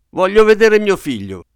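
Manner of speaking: almost scream it, near collapse; near shriek. A narrator's reading. Father on the verge of collapse, almost shrieking. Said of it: "quasi strillò mister Button".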